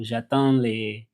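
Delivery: slow French "J'attends les"; French phrase. Shown as a demonstration. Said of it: "we would say".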